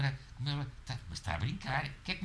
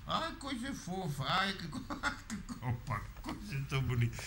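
cooing at a kitten; 5 semitones higher than usual. Real, not acted.

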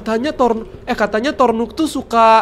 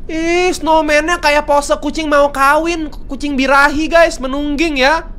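high, slow mocking tone; amused teasing; 5 semitones higher, slower than usual. Real, not acted. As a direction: tease the snowman's pose, slowly. Mocking snowman pose. (nada mengejek, tinggi dan lambat)

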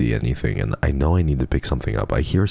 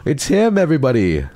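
much higher and louder, squealing with joy; excited shriek; 14 semitones higher, 6 dB louder than usual. Real, not acted. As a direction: squeal it to the whole room. Shrieking on finding Mister Midnight.

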